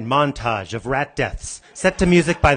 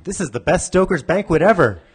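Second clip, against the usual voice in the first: chorus-like cheer, a bit higher and louder; crowd in unison; 5 semitones higher, 4 dB louder than usual. Acted. Banquet audience cheering in unison, mock excited. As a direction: say it like a whole happy crowd at once. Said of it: "Audience, in unison".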